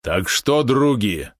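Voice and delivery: exclaiming to friends. Acted. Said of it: "воскликнул Олег".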